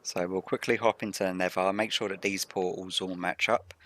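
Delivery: rough morning voice; hoarse morning voice. Real, not acted. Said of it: "I've got morning voice at the moment".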